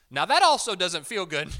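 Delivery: a loud preacher's protest. Real, not acted. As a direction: call it out to the congregation. Preacher raises voice at crowd.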